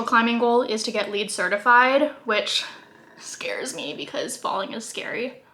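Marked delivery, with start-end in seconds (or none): 3.2-5.4 mouth full. Real, not acted. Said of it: "Sorry for talking with my mouth full".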